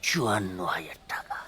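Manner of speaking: very low, hushed near-whisper; reluctant admission. Acted. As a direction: let the figure slip out under your breath. Reluctantly admits a club's sum.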